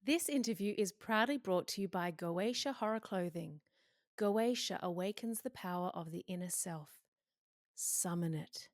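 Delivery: measured, deliberate ad read; polished announcer delivery; sponsor read. Real, not acted. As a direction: announce the sponsor, ending on a slogan. Reads sponsor message.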